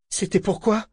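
high, stunned question; bewildered. A narrator's reading. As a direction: ask it dazed and baffled. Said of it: "demanda-t-il ahuri". (ahuri, voix haute et stupéfaite)

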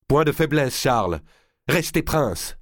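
ordre sec, appuyé sur Point; voix dure. Acted. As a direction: commander sans pitié. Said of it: "la voix dure d'Isabelle d'Angleterre". (ton dur et autoritaire)

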